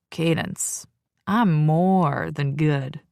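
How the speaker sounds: a hint of a low, slow, smug male voice; cocky man's voice. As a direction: drawl it with smug confidence. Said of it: "his deep, gravelly voice".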